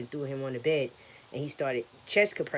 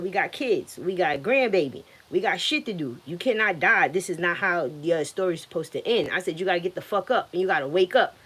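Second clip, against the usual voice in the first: louder, pleading and scolding at once; retold angry yelling; 2 semitones higher, 4 dB louder than usual. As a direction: yell at him not to die. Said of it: "I started yelling at him".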